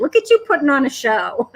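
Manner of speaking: quick tease breaking into laughter; amused, mocking retelling at a brisk pace; playful teasing. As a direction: rib them, then laugh. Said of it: "He was making fun of me".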